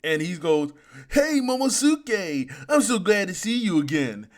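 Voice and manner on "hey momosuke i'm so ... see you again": hammed-up fake joy, stretching the words; Oda. Impostor father greeting a boy, hammed-up glad call. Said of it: "he transformed himself into Oda".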